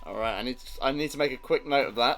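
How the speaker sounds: bursting with delight at the twist; excited. Real, not acted.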